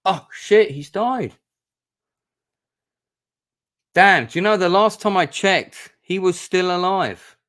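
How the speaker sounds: real shock, voice jumping high and loud; high, stunned disbelief; shocked surprise. Real, not acted. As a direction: blurt it out as the bad news hits you. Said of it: "kind of hit me a bit by surprise".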